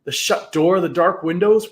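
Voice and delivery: usual speaking voice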